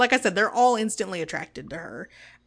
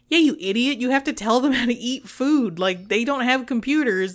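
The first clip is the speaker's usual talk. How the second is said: higher, exasperated telling-off; mock scolding; 3 semitones higher, 3 dB louder than usual. Telling Picard off over the replicators, mock scolding. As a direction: scold someone who missed the obvious.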